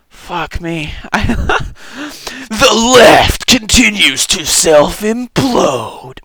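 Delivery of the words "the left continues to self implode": mock pundit shout. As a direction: declare it like a smug pundit. Reading comment in put-on voice.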